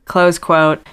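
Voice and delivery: reading a quote with its marks; dictating. Shown as a demonstration. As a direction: read it, naming the quote marks. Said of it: "what type of phrase is this".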